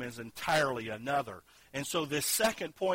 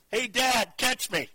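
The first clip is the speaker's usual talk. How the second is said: put-on child's call from a rock above, high and loud; retold child's yell; 10 semitones higher, 6 dB louder than usual. Father retelling his son Zach shouting from the cliff, high loud yell. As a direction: belt it up to Dad like a kid mid-jump. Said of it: "I heard a voice from above me yell".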